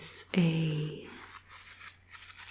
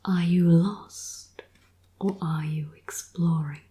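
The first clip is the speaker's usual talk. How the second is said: reading the back cover in a whisper; storyteller whisper, a touch more lively; whispered blurb reading; 3 dB louder than usual. Acted. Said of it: "I'll read the back for you".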